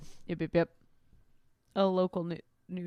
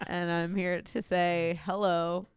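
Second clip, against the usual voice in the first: slow, calm radio host voice; a hint of public radio calm; slower than usual. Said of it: "what's your best public radio voice".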